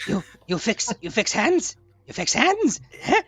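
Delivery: amazed creature. Acted. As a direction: marvel like a simple creature. Gustav amazed at healing.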